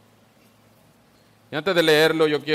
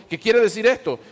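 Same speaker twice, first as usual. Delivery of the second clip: higher, mildly puzzled quoted question; perplexed question; 7 semitones higher, 4 dB louder than usual. Retold or imitated. Perplexed onlookers asking one another at Pentecost, mildly baffled question. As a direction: read the crowd's puzzlement, pitched up. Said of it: "todos estaban perplejos".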